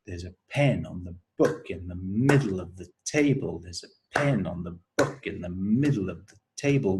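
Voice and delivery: fast, only pen, book, middle, table stressed; stress timed rhythm. Shown as a demonstration. Teacher chanting over the clapped beats. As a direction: rattle it off to the clap. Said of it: "say the first sentence".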